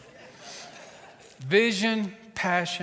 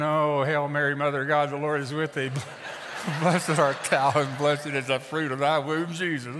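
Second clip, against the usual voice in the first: desperate mock prayer. Preacher facing Papa Bear tries any prayer, mock desperate. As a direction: reel off a prayer as if under threat. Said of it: "I'm trying any prayer that'll work right now".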